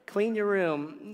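slow, loud nagging parent; mock parent. Parent ordering a teenager, slow and loud. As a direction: bark the chore slowly. Parent voiced, teen joke.

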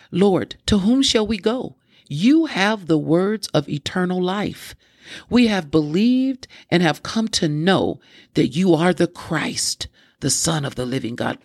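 deliberate reading, lifted then settling at the close; scripture reading. Real, not acted. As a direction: proclaim the verse, lingering on key words. Reads scripture aloud.

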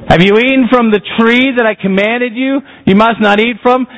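God's question. Acted. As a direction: press it like God confronting. Preacher quoting God again.

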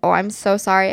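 microphone knocked mid-sentence; bumping the mic while talking. Real, not acted. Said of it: "I keep hitting the microphone".

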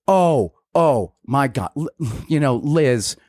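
mock-sympathetic agreeing tone; fake sympathy. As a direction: humor her with exaggerated sympathy. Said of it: "This is the tone of voice I use with her".

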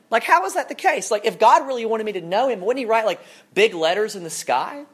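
lightly acted sceptic, pitch jumping up; incredulous listener challenging the preacher; mock objection. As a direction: push back like a puzzled doubter.

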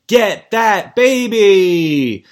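drawn-out, high, loud playful shout; mock game call. Podcaster calling out the parents' chase game, playful drawn-out shout. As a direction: call it out slowly like a game-show title.

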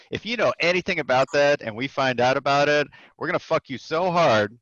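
lightly acted menacing sergeant major; mock threat. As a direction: lay down a threat in a retold boss's voice.

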